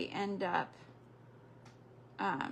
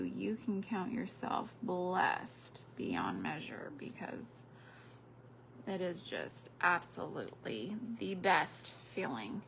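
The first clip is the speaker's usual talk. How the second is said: whispered; 3 semitones lower, 8 dB quieter than usual. Real, not acted. Grandmother telling viewers about grandchildren, whispered. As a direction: breathe it like a secret blessing. Tender aside about loved ones.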